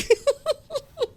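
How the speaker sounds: high-pitched wheezing laugh. Real, not acted. Streamer laughs at his own embarrassing story, high laugh.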